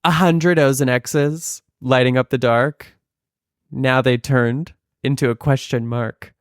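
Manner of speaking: mock-reverent reading; reading like scripture. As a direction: read the lyrics as if from the pulpit. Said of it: "I'm gonna read scripture to you".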